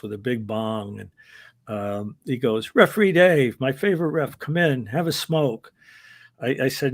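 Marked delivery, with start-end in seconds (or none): 2.7-5.7 mock Sheik greeting. Wrestler greeting the referee at his door, a raised, hearty welcome. Sheik voiced inviting him in.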